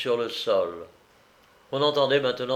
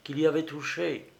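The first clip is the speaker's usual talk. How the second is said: lightly voiced, higher young woman; a touch of remorse, pitched up; distraught young woman confessing; 4 semitones higher than usual. Young woman confessing her mistake to her companion, mildly distraught. Character recounts her story in dialogue.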